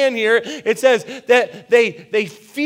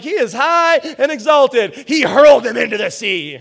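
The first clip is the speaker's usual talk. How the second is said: higher and louder, jubilant cheer; excited exclamation; 3 semitones higher, 5 dB louder than usual. Retold or imitated. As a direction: shout it like a victory chant. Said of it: "I'm like".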